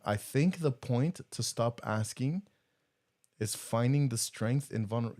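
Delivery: "I think the point to stop asking" read slowly, with a pause after "asking". Shown as a demonstration. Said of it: "so let me read it slower".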